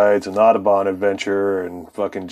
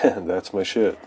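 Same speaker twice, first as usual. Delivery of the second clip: laughing; 5 semitones lower, 8 dB quieter, slower than usual. Real, not acted. Repeats own quote laughing.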